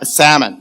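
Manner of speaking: "salmon" with the L left silent. Shown as a demonstration. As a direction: drop the L in "salmon". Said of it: "that's how you say it".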